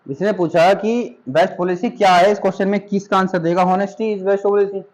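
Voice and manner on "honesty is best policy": slow read-out. Shown as a demonstration. Teacher dictating the example to students, slow and clear. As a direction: read "honesty is best policy" very slowly, word by word. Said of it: "reads example slowly".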